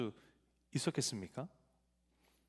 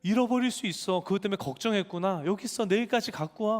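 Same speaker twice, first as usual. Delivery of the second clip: mildly voiced teacher, a bit higher, soothing; kind teacher; 5 semitones higher than usual. Pastor retelling how the teacher comforted him, lightly higher and kind. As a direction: play the teacher gently reassuring the child. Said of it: "하고 주시더라고".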